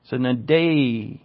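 Sunedei with DEI drawn out slowly; stress on DEI. Shown as a demonstration. Teacher showing the Greek accent mark, stress on the DEI in "Sunedei". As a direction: lean long on the last part of "Sunedei". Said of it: "That's where you emphasize".

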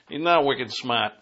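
joking put-on Boston accent; Boston-accented aside. Shown as a demonstration. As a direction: say "wicked smart" like a Bostonian. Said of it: "to use my Boston accent".

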